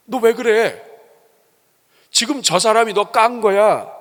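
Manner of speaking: whisper-in-the-ear tempter, but loud; devil needling. Acted. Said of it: "마귀가 자꾸 와서 건드립니다". (높고 큰 소리로 부추기는 마귀)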